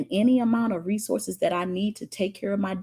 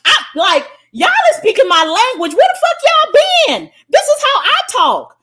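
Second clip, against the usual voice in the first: higher, louder, fired-up praise; thrilled and loud; 6 semitones higher, 9 dB louder than usual. Real, not acted. Coach hyping the viewers who speak her language, loud. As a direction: lift the room with delight.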